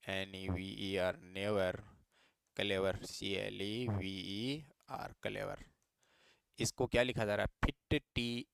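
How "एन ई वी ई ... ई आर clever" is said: slow, letter by letter, each letter apart; careful classroom spelling; spelling out slowly. Shown as a demonstration. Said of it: "man never clever".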